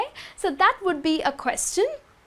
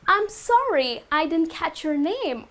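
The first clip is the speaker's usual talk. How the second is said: polite. Shown as a demonstration. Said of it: "in a very polite manner".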